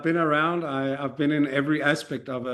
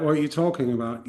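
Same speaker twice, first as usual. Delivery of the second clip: mock baffled entrepreneur; faster than usual. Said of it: "they're like".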